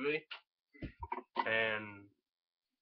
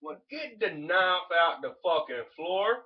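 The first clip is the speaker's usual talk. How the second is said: angry order; 6 semitones higher, 7 dB louder, slower than usual. Real, not acted. Yelling at brother.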